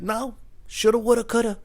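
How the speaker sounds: high-pitched mock refusal; drunk dude. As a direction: imitate a despondent drunk brushing it off. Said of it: "I'm drunk now".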